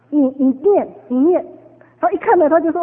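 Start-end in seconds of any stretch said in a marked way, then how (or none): 0.1-1.4 firm, loud order to read; mild retold command. Preacher ordering the nephew to read the verse, loud and firm. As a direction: push the boy to read it aloud.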